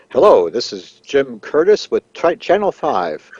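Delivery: lightly put-on news anchor greeting; a touch of on-air announcer polish; practicing newscaster. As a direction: imitate an anchor rehearsing the station intro. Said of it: "he's practicing the news".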